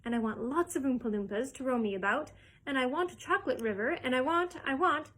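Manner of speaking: rising bratty insistence; spoilt demand. Acted. Veruca demanding, spoilt brat.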